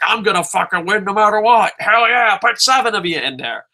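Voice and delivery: mock gung-ho bravado, pushed up in pitch; Kurt Angle. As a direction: act out a wrestler's cocky challenge. Acts out Kurt Angle's cocky boast.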